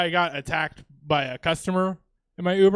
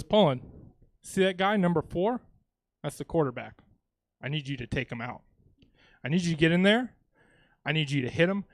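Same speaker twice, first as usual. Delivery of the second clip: lightly voiced coach, hushed and deliberate; understated menacing coach, falling quieter; conspiring coach; 2 semitones lower, 5 dB quieter than usual. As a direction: give secret sideline orders with grave pauses. Coach giving sinister sideline orders.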